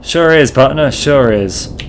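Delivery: put-on a light old-West cowpoke voice; cowboy drawl. Gabby greets the dinosaur, light cowboy twang. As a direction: greet him like a dusty ranch hand. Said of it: "Gabby doesn't talk like that".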